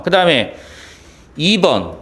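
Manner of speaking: ordinary talk, nothing marked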